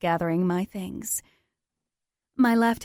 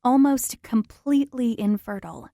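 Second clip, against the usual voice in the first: doctor's verdict; 3 semitones higher, 3 dB louder than usual. Retold or imitated. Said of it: "the doctor said".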